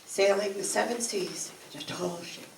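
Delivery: measured, rolling poetry reading with swells and soft endings; poem recital. Acted. Reciting a tall-ship poem to the audience, solemn and wistful. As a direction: recite it like a sailor's ballad, building in the storm and fading to the last sail.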